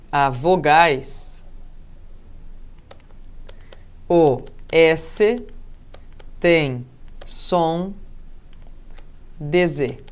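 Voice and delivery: word by word, long pauses; slow dictation. Shown as a demonstration. Teacher dictating the spelling rule to students, slow and paused. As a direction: dictate it slowly, phrase by phrase.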